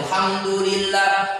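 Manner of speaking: alhamdulillah starting straight on "ham"; hamzah deleted. Shown as a demonstration. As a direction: leave off the "al", say "hamdulillah". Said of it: "Hamzahnya kalau terhapus". (alhamdulillah dengan hamzah dihapus)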